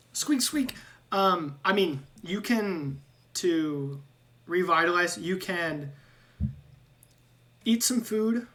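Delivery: a rat host offering food; squeaky rat-man. Acted. GM voices Ratrick again.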